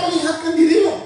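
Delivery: high, shouted command; loud dramatic echo. Acted. Preacher repeats the reader's verse to congregation, loud and dramatic. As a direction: punch it out at full volume.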